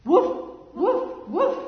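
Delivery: loud, high rising woofs; warning call. Shown as a demonstration. Teacher leading children in the warning call. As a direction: bark the alarm so the sheep huddle. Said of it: "say it with me".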